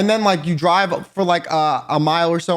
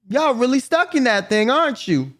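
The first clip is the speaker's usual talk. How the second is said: higher, easygoing country twang; lightly voiced country son offering to fetch his dad; Bart's country voice; 6 semitones higher than usual. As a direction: sympathize like a rural son. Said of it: "And he's like".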